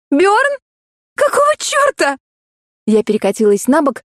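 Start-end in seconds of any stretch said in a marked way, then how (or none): 0.1-2.2 high startled outburst; shocked cry. Acted. Heroine realises a stranger is in bed, high shocked cry.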